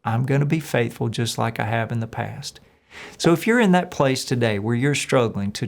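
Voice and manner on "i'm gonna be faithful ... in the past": gentle reassurance. Acted. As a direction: quietly comfort someone afraid. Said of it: "He just says".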